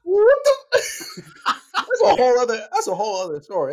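words broken by laughter; laughing. Real, not acted. Cracking up at own remark.

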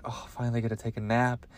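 soft, low, quick murmur; weary relief. Acted. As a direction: play a worn-out parent sinking into bed. Acting a worn-out parent lying down.

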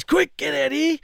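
high, urgent mock order; imitated fired-up urgency. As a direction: imitate a worked-up old man summoning people. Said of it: "He's all fired up".

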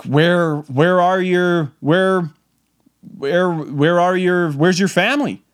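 slow, halting attempt to sound calm; forced calm. Asking a lost boy about family, forced calm. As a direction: stammer carefully through the question, putting on composure. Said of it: "I gotta be calm for this child".

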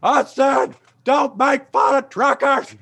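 high, put-on heckler voice; mock angry trucker yelling from the back. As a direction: bark it like a drunk trucker heckling.

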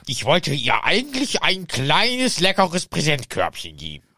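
whiny Voldemort. Acted. Voldemort jammert gespielt.

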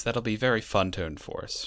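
dry, sarcastic "fun". Acted. Co-host mocking the new rules, dryly sarcastic. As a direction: say it so nobody believes you'd enjoy it. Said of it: "the sarcasm comes across in my voice".

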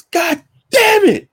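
high, slow, drawn-out mock outburst; retold outburst. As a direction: curse out the busted bracket, hammed up. Bracket busted at work, cursing.

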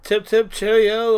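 slow, singled-out British pleasantries; mock British accent. Denying he copied his mom, slow mock British accent. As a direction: drag it out in a fake British accent. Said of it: "follow my mom around going".

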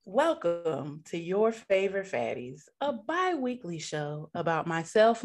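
slow, smooth late-night radio host; slow jams radio voice. Acted. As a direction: ease it out like a love-song DJ. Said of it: "that sounded very, like, Love Talk and Slow Jams".

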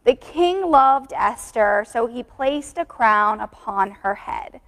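1 slow verse read. Shown as a demonstration. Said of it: "I'll read it first".

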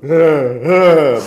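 a gloating little chuckle; mocking laugh. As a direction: laugh it off at her. Husband mocks wife's prediction. (alaycı kısa gülüş)

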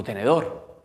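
"¿Tenedor?" asked with a rising, unsure tune; "¿Tenedor?" rising, half-baffled; puzzled question. Retold or imitated. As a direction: ask "¿Tenedor?" like a confused kid. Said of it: "Y digo".

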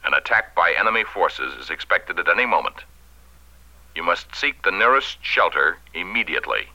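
solemn emergency radio announcement; grave civil defense broadcast. Acted. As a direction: read it like an official alert. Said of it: "this two-page speech for the radio announcer".

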